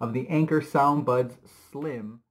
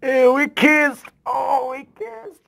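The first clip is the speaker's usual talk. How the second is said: high, slow squeaky voice; high cartoon voice; 11 semitones higher, 5 dB louder, slower than usual. Vlogger voicing the cat after a kiss, high and squeaky.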